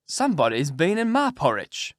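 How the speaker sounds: lightly voiced middle-sized bear; a moderate bear voice, only slightly put on. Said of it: "in his middle-sized voice".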